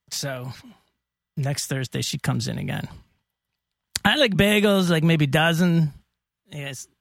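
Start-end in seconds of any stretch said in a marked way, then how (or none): 4.0-5.9 half-hearted put-on European accent as the old lady; a lightly voiced accented customer; hint of a foreign accent asking for bagels; bad vague accent. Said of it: "a bad accent that was not totally decipherable".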